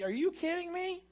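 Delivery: God challenging. Retold or imitated. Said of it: "He's like".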